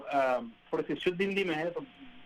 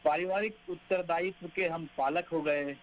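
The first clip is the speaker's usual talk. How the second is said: poem recitation. Acted. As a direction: read each line like a verse.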